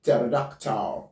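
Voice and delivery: "Pterodactyl" said as "TEH-ro-dak-tah"; no P opening "Pterodactyl", just T; silent P. Shown as a demonstration. Teacher corrects the mistake, P silent in "Pterodactyl". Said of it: "not pterodactyl".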